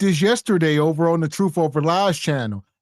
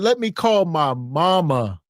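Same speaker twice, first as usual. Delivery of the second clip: lower, slow, mocking put-on voice of the driver; mocking her; 3 semitones lower, slower than usual. Commentator mocking the driver calling her mama instead, slow and lower. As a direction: drag it out like a pouty caller asking for help. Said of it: "She said".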